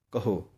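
ਕਹੋ with a short u vowel on h; careful pronunciation. Shown as a demonstration. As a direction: say ਕਹੋ with aunkar, not hora. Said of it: "ਕਹੋ ਪਾਠ ਨਹੀਂ ਕਹਿਣਾ".

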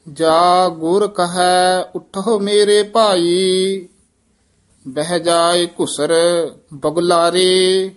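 measured, even-toned Gurbani reading; scripture recitation. Acted. Reciter reads Gurbani verses for learners, measured recitation. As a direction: recite on a level, sustained tone.

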